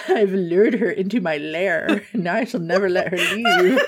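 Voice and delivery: lightly voiced scheming villain, a hint of laughter; a touch of a mock villain gloating; mustache twirling villain. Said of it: "Twirling the mustache".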